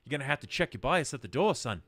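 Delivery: high, loud, scolding gnome; cocky gnome voice. Acted. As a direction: put the interviewer in his place with a grin. Gnome argues about his height.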